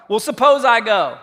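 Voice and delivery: a hint of a reluctant Moses; lightly voiced hesitant Moses; mock Moses. Moses hedging to God, lightly voiced and hesitant. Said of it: "And Moses said to God".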